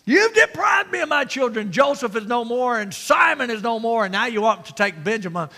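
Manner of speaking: high, loud exasperated lecture; frustrated rant. Acted. Frustrated father Jacob lectures his sons, acted rant. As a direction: lay into them, starting high and easing down. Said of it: "he's frustrated. And we lecture when we're frustrated".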